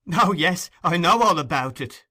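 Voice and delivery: loud, high, forced laughing reply; hysterical laugh. Acted. Nancy laughing wildly at Sikes's threat. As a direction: laugh it off, near breaking. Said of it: "laughing hysterically".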